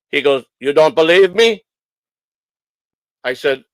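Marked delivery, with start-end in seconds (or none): 0.6-1.6 put-on louder Polish-accented challenge. Inspector challenging the doubting owner, Polish accent. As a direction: imitate a Polish mechanic, pushing louder. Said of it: "he sounded Polish to me".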